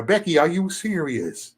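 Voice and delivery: slow, drawn-out disbelief; slow incredulous Becky line; slow mock disbelief. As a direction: let it hang, slowly. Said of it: "them the Beckys right there".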